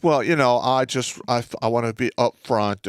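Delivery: lightly hammed-up nervous caller; mock hesitant caller. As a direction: imitate the venue rep tiptoeing around. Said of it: "they called me up like".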